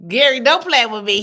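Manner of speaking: loud, high, playful protest; don't play with me, half laughing; a big playful outburst at the chat; mock outrage. Real, not acted. Mock-indignant at a viewer's comment.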